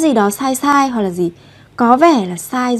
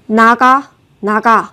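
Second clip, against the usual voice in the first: sharp, loud order to get out; furious get out; angry command; 4 dB louder than usual. Shown as a demonstration. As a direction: bark it like you're furious. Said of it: "khi mà ai đó nói rất là tức giận".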